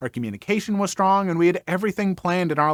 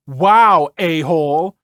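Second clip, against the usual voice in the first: yelled insult; 6 dB louder, slower than usual. Retold or imitated. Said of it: "She yelled back at me".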